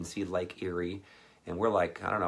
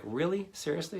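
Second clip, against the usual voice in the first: amused disbelief; 10 semitones higher than usual. Retold or imitated. Mom laughing disbelief.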